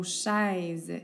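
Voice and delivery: chaise said slowly, leaning on the è; teacher modelling chaise slowly for pupils; slow model word. Shown as a demonstration. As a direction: hold chaise so the è sound is heard. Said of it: "Tu entends le est dans chaise".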